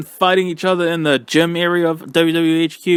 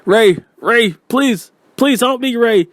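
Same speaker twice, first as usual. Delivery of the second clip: mock pleading; 8 semitones higher, 3 dB louder than usual. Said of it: "AJ was like".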